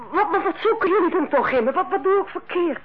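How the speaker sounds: nervous, upset laughter breaking in; distraught laugh. Acted. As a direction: laugh helplessly through the stammered questions. Nurse distraught under accusation.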